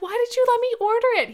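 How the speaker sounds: high, fast, whining accusation; whiny complaint. Retold or imitated. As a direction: whine at him in dismay. Blaming boyfriend, retold.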